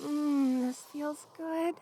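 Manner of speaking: soft, slow, contented murmur; quiet and soothed; cosy contentment. Acted. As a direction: savour the warmth, easing off softly. Coiled tighter around warm friend.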